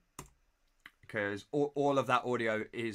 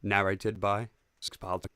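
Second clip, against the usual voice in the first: slow, low narrator intro; 3 semitones lower, slower than usual. Shown as a demonstration. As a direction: announce the title slowly. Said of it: "Need to prep the narrator voice".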